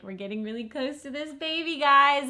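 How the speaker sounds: high, bright-eyed doctor's announcement; excited nurse. Retold or imitated. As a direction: imitate the doctor's thrilled call. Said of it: "her being like".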